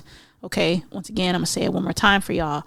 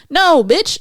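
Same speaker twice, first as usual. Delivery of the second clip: sharp loud no, high and louder; loud scolding; 8 semitones higher, 7 dB louder than usual. Real, not acted. Podcaster scolding a listener who wants to change a partner, loud. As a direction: cut them off hard.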